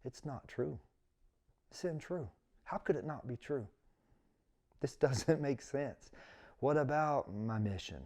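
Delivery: soft, hushed, a touch of disbelief, only lightly tearful; mild imitation of crying alone in the truck; retold bawling. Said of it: "going, bawling".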